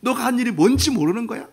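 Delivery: rising, aching plea; a father hurting as he asks; heartbroken father. Acted. Father grieving over his son's sin, aching plea. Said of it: "아빠가 가슴이 너무 아파가지고".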